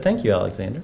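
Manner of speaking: a hint of a grateful horse. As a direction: give the horse a low, thankful voice. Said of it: "The horse said".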